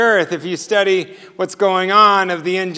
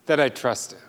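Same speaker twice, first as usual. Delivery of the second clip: much softer and lower, dropping the voice on that I trust him; hushed repeat; 7 semitones lower, 9 dB quieter than usual. Shown as a demonstration. Preacher repeating his point softly to the congregation, hushed. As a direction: let the repeat fall to a near hush. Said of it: "What God wanted was that".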